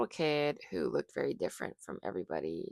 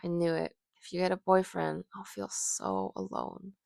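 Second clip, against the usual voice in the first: pouting; 3 semitones higher than usual. Acted. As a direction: sigh it out with a sulky pout. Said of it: "as Juan pouts".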